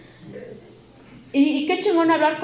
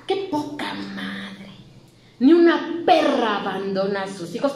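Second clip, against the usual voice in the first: grandmother scolding; 4 semitones lower than usual. Retold or imitated. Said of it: "decía".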